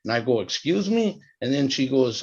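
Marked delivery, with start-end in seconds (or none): 0.4-1.2 retold disbelief, higher pitched; taken aback. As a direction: query it as if you misheard, mildly. His taken-aback reply, retold.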